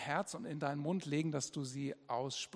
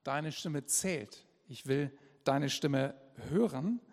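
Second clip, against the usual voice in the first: God's gentle call. Shown as a demonstration. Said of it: "Wenn Gott sagt".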